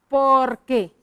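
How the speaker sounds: "porque" set apart as a written word; dictation. Shown as a demonstration. Teacher writes the corrected connector, deliberate dictation. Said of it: "Entonces vamos a escribir".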